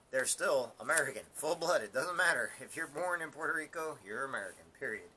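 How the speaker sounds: loud, high, forceful assertion; emphatic insistence. Real, not acted. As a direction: drive each point home loudly. Firmly insisting on their citizenship.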